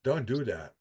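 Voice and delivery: soft, low, resigned warning; quiet warning. Real, not acted. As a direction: say it quietly, almost to yourself. Repeated warning, softer, lower.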